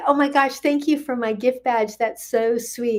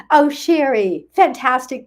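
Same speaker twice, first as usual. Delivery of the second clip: louder, bright oh of delight; happy surprise; 4 semitones higher, 5 dB louder than usual. Real, not acted. Host thrilled that Sherry jumped over from YouTube, louder delight. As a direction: cheer her arrival.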